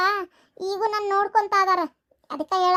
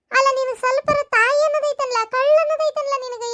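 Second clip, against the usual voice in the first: raised, higher angry scolding; scolding son; 5 semitones higher than usual. Acted. Mother scolds her son for leaving her, raised and angry. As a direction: tear into him for abandoning you.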